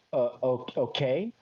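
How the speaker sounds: halting, questioning agreement; hesitant okay. Retold or imitated. Customer answering the hairdresser's head massage, hesitant. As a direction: stammer into an unsure okay. Acts out own uneasy reply.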